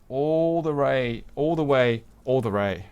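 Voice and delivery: light Asian accent on "all the way"; a hint of an Asian accent. Shown as a demonstration. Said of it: "my, uh, Asian accent coming out there".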